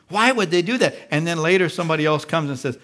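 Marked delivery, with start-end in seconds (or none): 0.1-1.0 cocky. Retold or imitated. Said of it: "yesterday you were all cocky".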